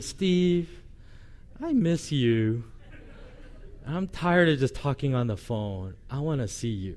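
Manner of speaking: tiny, mouse-like little voice. Speaker retelling what she would say during long phone calls, in a little mousy voice. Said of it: "in that little mousy voice she has".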